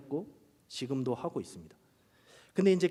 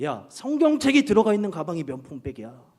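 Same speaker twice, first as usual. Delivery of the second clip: emphatic declaration; 2 semitones higher, 8 dB louder than usual. Retold or imitated. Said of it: "제가 이렇게 말했어요".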